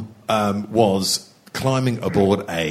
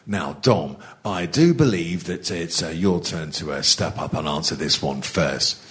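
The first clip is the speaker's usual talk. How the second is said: mock northern accent. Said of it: "put on a mock northern accent".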